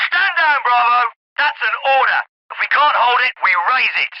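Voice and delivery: insistent commander shutting down dissent; stern order. Acted. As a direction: overrule a subordinate over the radio. Officer overrules Bravo by radio.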